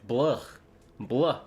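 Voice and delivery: light retching blah of distaste; mock disgusted blah. Shown as a demonstration. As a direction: spit the taste out, half joking. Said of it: "sounds disgusting when you say it".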